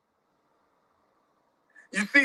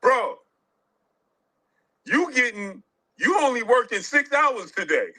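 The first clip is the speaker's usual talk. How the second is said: a hint of a bragging guy, barely voiced; lightly mocking quote; 4 semitones higher, slower than usual. Vlogger mimics a boastful friend for viewers, lightly mocking. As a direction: toss it off like a buddy showing off. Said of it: "That's like somebody saying".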